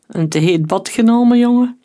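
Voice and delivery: mercenary leader mocks a burned corpse, gloating loudly; mocking smack. A narrator's reading. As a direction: relish the sick joke. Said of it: "smakte hij".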